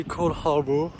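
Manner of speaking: French speaker trying an English accent. Shown as a demonstration. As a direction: place name with a light English accent. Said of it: "Je le dis bien avec mon petit accent, euh, anglais".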